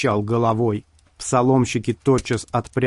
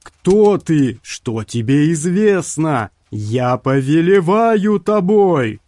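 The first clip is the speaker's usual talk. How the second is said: desperate sorcerer; 5 semitones higher, 5 dB louder, slower than usual. A narrator's reading.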